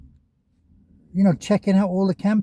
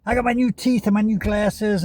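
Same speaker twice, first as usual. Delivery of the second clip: high, goofy mock voice with a shout on the hey; hammed-up imitation calling out to Miss Tammy; a YouTuber mocking Sarasota Tim, high and goofy; Sarasota Tim impression; 6 semitones higher than usual. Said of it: "Grifters Anonymous, he had the glasses on".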